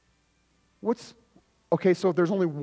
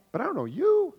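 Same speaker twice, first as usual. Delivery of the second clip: demon voice; 12 semitones higher than usual. Acted. Demon voiced in retold story.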